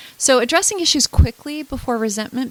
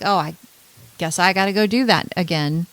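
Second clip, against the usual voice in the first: dry, lightly mocking grumble; mild sarcastic jab at someone who ignored you; 3 semitones lower than usual. Shown as a demonstration. Counsellor demonstrating a sarcastic retort to a repeat offence, lightly mocking. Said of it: "or you would be sarcastic".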